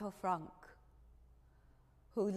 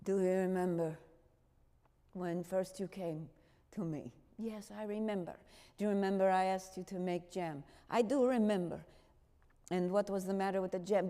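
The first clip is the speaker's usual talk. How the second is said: calm fatherly questioning; 3 semitones lower than usual. Retold or imitated. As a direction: lead her gently to the point. Otto's calm questions to Miep.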